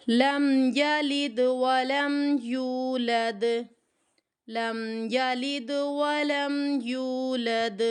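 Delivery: very slow chanted قل هو اللہ with drawn vowels; Quran recitation. Shown as a demonstration. Teacher recites slowly so students read along. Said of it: "اب پڑھیں صحیح سے".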